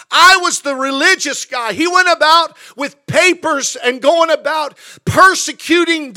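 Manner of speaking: high, loud preaching build; fiery preaching. Acted. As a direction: thunder it from the pulpit. Preaching at full force.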